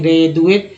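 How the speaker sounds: ग्रेजुएट with a soft dental d, "gray-dhu-ate". Shown as a demonstration. Teacher tries द in the word, soft dental pronunciation. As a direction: say ग्रेजुएट with tongue-on-teeth द for D. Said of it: "फिर द लगाएंगे".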